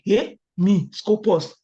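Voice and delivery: a loud, thrilled little cry of joy; retelling a happy shout over a first Scopus paper; excited exclamation. Retold or imitated. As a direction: burst out like you can't believe your luck.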